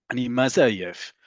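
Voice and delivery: slow lilt through "Ani maze ayef"; sing-song lilt. Shown as a demonstration. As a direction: lean on "maze", falling away on "ayef". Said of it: "a little bit of a sing-song in there".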